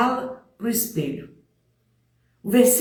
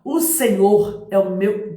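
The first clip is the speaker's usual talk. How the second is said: halting start; 3 dB louder, slower than usual. Shown as a demonstration. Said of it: "primeiro você começa assim".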